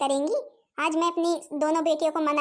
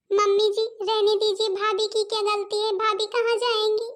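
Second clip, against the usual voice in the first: pleading; 4 semitones higher, 3 dB louder than usual. Acted. Daughter pleads with mother.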